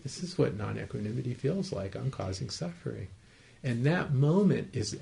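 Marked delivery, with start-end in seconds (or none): 0.0-3.1 matter-of-factly. Shown as a demonstration. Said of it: "to matter-of-factly".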